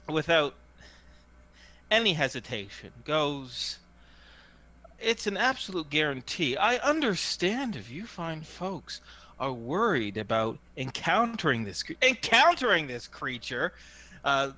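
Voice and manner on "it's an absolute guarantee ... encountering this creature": hawker's assuring sales patter; lightly voiced hawker. Hawker guarantees it to worried folks, light salesman's patter. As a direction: reassure the crowd with a showman's swoops in pitch.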